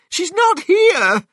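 very high, loud, slow wail; crying out. A narrator's reading. Missus Cranky finds her mother gone, crying out. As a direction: wail it out in alarm. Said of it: "cried Missus Cranky".

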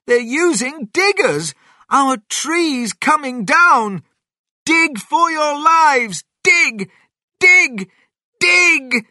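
very high, loud, frantic shouting; panicked cry. Acted. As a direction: scream orders as if lives depend on it. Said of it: "cried Mister Fox".

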